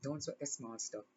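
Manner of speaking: gentle hushed repetition; soft echo. Real, not acted. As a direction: let it fall away quietly. Repeated advice, softer echo.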